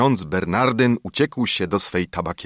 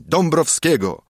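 joyful shout; 8 semitones higher than usual. A narrator's reading. The whole tavern cheering together, joyful shout. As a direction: cheer the general's name as one. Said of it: "krzyknęli".

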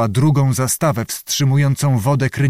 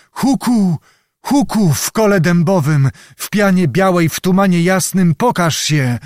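high, insistent conjuring chant; witch's incantation; 6 semitones higher than usual. A narrator's reading. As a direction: call up the vision in a raised pitch. Witch repeats her summoning incantation.

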